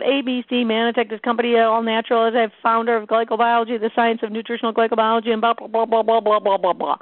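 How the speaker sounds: mock over-long presentation, trailing into blahs; rambling sales pitch. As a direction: rattle it off in one monotonous run. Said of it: "go into the full-blown presentation".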